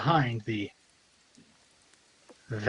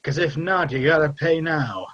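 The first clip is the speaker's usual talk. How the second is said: a hint of a bandit demanding the toll, raised; gruff toll collector; 2 semitones higher than usual. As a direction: tough guy shaking down travelers. GM voices toll-taking bandit.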